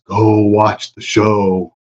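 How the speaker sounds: slow, commanding Jedi voice; Jedi mind trick. Pretend. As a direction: lay the Force on them, slowly. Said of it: "I'm gonna use the force".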